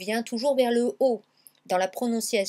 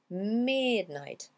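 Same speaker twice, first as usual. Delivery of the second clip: MID held long in MIDNIGHT; lengthened MID. Shown as a demonstration. Teacher shows how the song lengthens MID. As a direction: stretch the first syllable of midnight. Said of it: "il allonge le mid".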